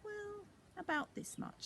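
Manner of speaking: put-on high, small child's voice; hopeful little girl. Millie shows empty purse.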